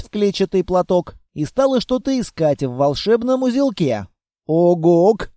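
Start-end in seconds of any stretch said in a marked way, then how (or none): 4.5-5.3 a short, loud creature grunt; monster grunt. Acted. The monster grunts at the reading girl. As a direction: bark it like a beast.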